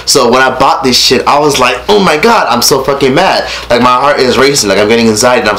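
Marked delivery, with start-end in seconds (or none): 1.9-3.5 retold exasperation. Vlogger recalling being mad at the roommate, retold exasperation. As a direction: voice lifted on a mock-outraged opener. Quotes own anger at the purchase.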